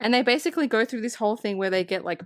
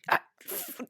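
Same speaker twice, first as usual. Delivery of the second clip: exasperated sputter into a curse; imitated fed-up witch; mock pissed-off witch; 7 semitones higher, 4 dB quieter, slower than usual. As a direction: stammer out an acted frustrated curse. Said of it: "she's just pissed now".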